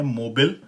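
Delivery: मोबाइल as "mo-bul", the end clipped; American mobile. Shown as a demonstration. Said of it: "American pronunciation में ये है".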